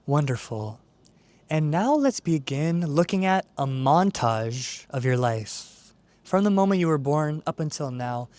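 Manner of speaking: calm, measured meditation guide; guided meditation. Acted. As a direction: ease the listener into stillness, unhurried, with long pauses. Leads a guided visualization.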